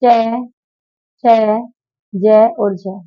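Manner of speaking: चै, छै, जै, झै said one at a time; sounding out letters. Shown as a demonstration. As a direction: sound out चै छै जै झै for pupils. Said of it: "चै वर्ग".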